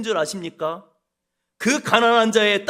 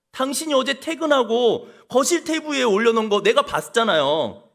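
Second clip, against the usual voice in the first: blaming husband; 4 semitones higher than usual. Pretend. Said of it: "남편이 아내에게 묻습니다".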